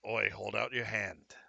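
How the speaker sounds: a hint of botched British; lightly put-on British accent; rough British accent. Game master as Jack telling player to hold out a hand, rough British accent. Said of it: "I butchered a British accent".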